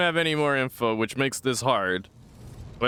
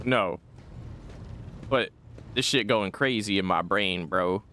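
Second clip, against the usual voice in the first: ordinary talk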